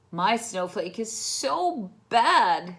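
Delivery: put-on sad child. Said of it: "said Victor".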